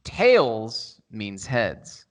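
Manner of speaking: drawn-out, very slow ASMR line. Pretend. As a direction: stretch each word, ASMR style. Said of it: "Minute starting A S M R now".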